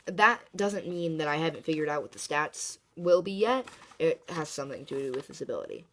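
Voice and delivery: blocked nose, stuffed up; talking through a stuffy nose. Real, not acted. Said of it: "my nose is a little stuffed up".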